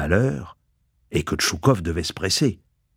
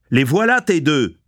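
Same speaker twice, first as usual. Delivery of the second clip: raised, insistent cry; 7 semitones higher, 3 dB louder than usual. A narrator's reading. Tchoukov keeps shouting his defence.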